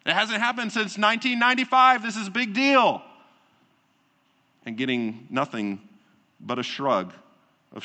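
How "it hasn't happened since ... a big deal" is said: incredulous excited fan. Retold or imitated. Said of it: "And people going".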